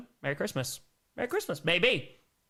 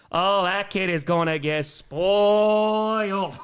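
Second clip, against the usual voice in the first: slow, drawn out with a laugh; slow amused repeat breaking into laughter; 3 dB louder, much slower than usual. Shown as a demonstration. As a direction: stretch it out slowly, chuckling. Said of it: "repeats it drawn out".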